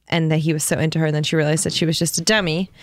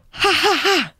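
flat mock laugh; 10 semitones higher than usual. Mocking the boyfriend's text laugh.

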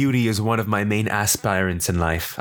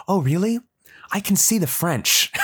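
mock knowing lady; 9 semitones higher than usual. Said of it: "this bitch goes".

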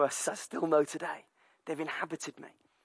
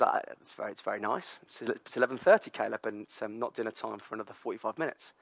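patient mum voice; 5 semitones lower, 4 dB quieter than usual. Retold or imitated. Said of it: "Danny says".

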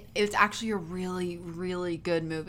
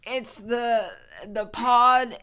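lightly voiced old geezer; a hint of a puzzled grandpa; very old man; 4 semitones higher, 7 dB louder, much slower than usual. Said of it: "Why is your old man voice so good?".

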